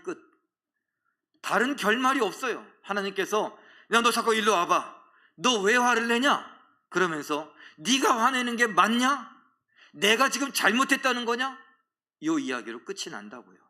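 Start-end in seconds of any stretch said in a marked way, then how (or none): 3.9-6.5 raised, louder acted summons; a hint of a scolding God; God's stern questioning. Preacher voices God confronting Jonah. 7.8-11.6 raised, insistent acted challenge; a hint of a reproving God; God's challenging question. Preacher voices God challenging Jonah.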